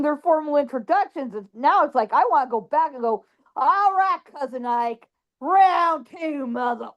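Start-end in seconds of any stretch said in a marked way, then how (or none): 3.6-6.9 mock challenge. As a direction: call him out for a rematch. Acted challenge to cousin's ghost.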